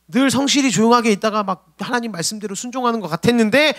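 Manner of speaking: usual speaking voice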